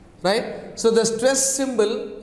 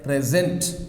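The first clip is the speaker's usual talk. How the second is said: "present" with its second syllable lifted and stressed; stress on last syllable; 5 semitones lower than usual. Shown as a demonstration. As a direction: push the weight onto the end of "present". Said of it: "on last syllable".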